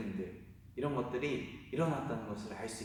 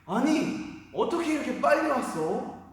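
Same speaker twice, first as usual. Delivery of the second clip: put-on much higher and louder, startled cry of an old father; astonished father; 12 semitones higher, 7 dB louder than usual. Isaac startled by his son's quick return, high astonished cry. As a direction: gasp it out in disbelief. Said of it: "이삭이 깜짝 놀란 거예요".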